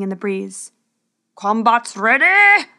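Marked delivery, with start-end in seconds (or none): 1.3-2.7 slow, loud herald's call; herald's cry. Acted. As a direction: announce it to the whole arena. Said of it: "cried the herald".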